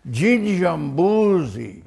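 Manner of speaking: loud, high, drawn-out call; slow mock shout, pitched high; Joy Adamson calling out. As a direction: imitate a woman calling across a camp. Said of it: "Joy then said".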